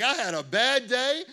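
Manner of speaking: half-shouted retold threat, daring. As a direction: bark it like a street challenge. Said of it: "I'm like".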